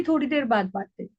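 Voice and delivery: gentle promise to talk later; lovingly. Shown as a demonstration. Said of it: "फिर प्यार से बोलिए". (प्यार से, धीमे स्वर में)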